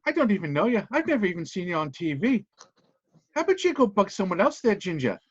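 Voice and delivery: a lightly put-on Irish accent, dismissive; Irish VIP brushing off a reporter, in an Irish accent. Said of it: "I got a shitty accent today".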